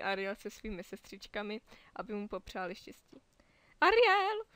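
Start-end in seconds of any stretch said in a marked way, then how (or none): 3.8-4.4 loud, much higher shout of her name; relieved shout. A narrator's reading. Sebastian spots Ariel backstage and shouts her name. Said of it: "vykřikl Sebastian".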